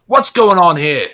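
a slow, deliberate guard challenging a stranger; guard's way of talking. Acted. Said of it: "That's the way he talks".

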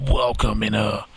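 attempted movie-trailer narrator, a hint of it. Shown as a demonstration. Podcaster showing he can't do the movie voice guy, attempted trailer voice. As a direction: try a movie voiceover guy, not quite getting there. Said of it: "movie voice guy".

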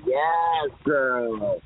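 sassy drag queen. Acted. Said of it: "that drag queen voice".

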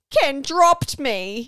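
bogan voice, slow and high; broad Australian accent. Retold or imitated. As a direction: drawl it like a bogan. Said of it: "in, in her most bogan voice".

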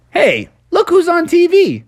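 hushed whisper. Acted. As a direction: whisper excitedly in bed. Family spots TV in bed.

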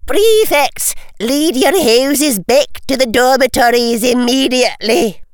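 high, loud order to a crowd. A narrator's reading. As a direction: project the command high over the room. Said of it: "raised her voice".

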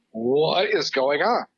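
slow, drawn-out disbelief; bewildered reaction. Retold or imitated. Voicing baffled viewers new to Doctor Strange, bewildered. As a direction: stretch it out in mock bewilderment. Voices stunned audience reaction.

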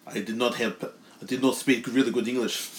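put-on light Bulgarian accent, wrestler promo; a hint of a Bulgarian strongman.

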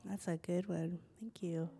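soft whispered praise; whispering. Real, not acted. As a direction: whisper your thanks. Quiet praise after a share.

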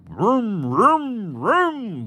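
high, loud, cranking vroom noises; imitated winding noise. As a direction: make the noise of cranking a flashlight. Winding a kinetic flashlight.

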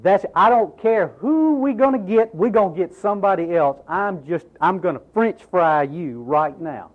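fed up, hammed-up anger; mock fed-up God. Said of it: "I'd said".

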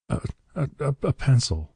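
high, broken stammer; gasping. A narrator's reading. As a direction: stammer it out desperately, pitched high. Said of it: "he gasped".

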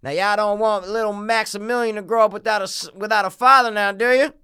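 high-pitched standoff plea, rising at the end; film standoff character. Acted. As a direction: play a movie character negotiating in a standoff. Acts out film standoff quote.

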